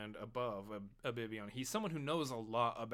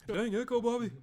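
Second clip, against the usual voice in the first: higher and louder, drawled Texan "Dang Echo, Bobby"; Hank Hill impression; 11 semitones higher, 7 dB louder than usual. Cohosts riffing on the cartoon, in a hammed-up Texas dad voice. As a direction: do a hammed-up Texas dad scolding his son. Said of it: "Dang it, Bobby".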